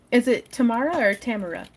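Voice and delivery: "Tamara" first as tə-MAR-o, then as TAM-ə-rə; two pronunciations. Shown as a demonstration. Asking a chat viewer which way "Tamara" is said, two stresses. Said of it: "I always put the wrong emphasis on the syllable".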